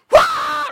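loud, high-pitched yelp of fright; terrified mock scream. People first seeing angels react, mock terror scream. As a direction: shriek in hammed-up panic. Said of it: "first reaction people had to angels".

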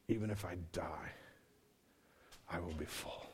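quiet, intimate testimony; hushed confession. Acted. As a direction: say it softly, like a secret surrender. Intimate quoted confession at sermon's climax.

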